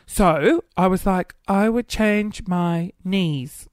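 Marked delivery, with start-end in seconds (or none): 1.5-3.7 earnest slow answer. Retold or imitated. Retelling earnest answer as child.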